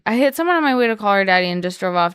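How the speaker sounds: fast text read-out. Shown as a demonstration. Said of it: "I'm gonna say, "Hey, babe, question".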